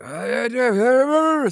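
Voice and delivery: high, garbled babble; incoherent rambler. Retold or imitated. Wheelchair man babbles at passerby by the door, incoherent rambling. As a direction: put on an unintelligible high-pitched ramble. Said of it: "saying a bunch of shit. I can't understand".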